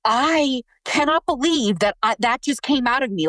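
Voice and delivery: disbelief. Retold or imitated. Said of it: "And I was like".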